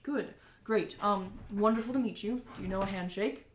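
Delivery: lightly voiced businessman; welcoming and chatty; friendly mayor voice.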